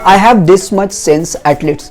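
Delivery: slow clear demo. Shown as a demonstration. Model sentence for learners.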